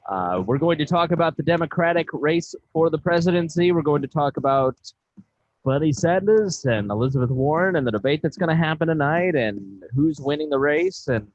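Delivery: measured show-rundown delivery; presenter reading out what's coming up; podcast host intro. Acted. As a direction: tease the topics before the break.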